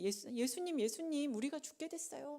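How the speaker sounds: high, panicky cry for help; panicked plea. Acted. Disciples in the storm cry to Jesus, high and panicked. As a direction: beg him to wake up, terrified.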